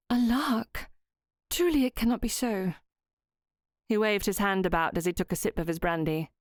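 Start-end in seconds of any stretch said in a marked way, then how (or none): 0.1-2.7 put-on higher young lady's voice, incredulous; Myra, doubtful. A narrator's reading. Myra doubting Southwood, higher and incredulous. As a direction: she can't believe it's a game.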